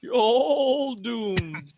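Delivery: slow creepy prophet of doom; slow ominous raspy drawl. Retold or imitated. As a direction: stretch it out, doom-laden and eerie. Repeating Ralph's line slowly.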